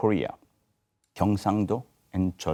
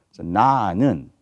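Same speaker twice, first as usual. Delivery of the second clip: 나는 with 나 punched louder and 는 light; stress on na; 7 dB louder, faster than usual. Shown as a demonstration. Singer explaining art song diction, stressing 나 in 나는. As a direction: hit 나 in 나는 and let 는 fall away. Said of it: "Na is much important than 는".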